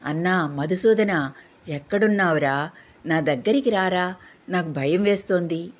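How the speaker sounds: crying out in fear. Acted. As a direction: call out scared, not quite a full shout. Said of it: "ఏడుస్తూ బిగ్గరగా ... అని అరిచాడు".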